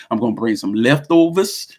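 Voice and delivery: a light fake New Orleans accent on leftovers. Joking to viewers about leftovers, a faint fake New Orleans accent. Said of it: "Yes, I said it like a New Orleans accent".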